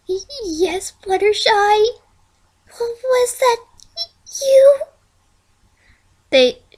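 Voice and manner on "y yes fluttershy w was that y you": much higher, stuttering, breaking into a cry; two scared ponies trembling in the forest; terrified stammer. A narrator's reading. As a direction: stammer it, close to tears with fright.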